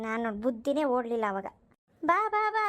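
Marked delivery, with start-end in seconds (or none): 2.0-2.7 eager welcome. Acted. Welcoming the arriving neighbour.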